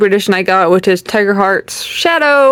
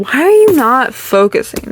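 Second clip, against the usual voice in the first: annoyed, pitched higher at the camera; irritated; 4 semitones higher than usual. Real, not acted. Vlogger frustrated with her camera not focusing, higher and irritated. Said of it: "This is making me mad".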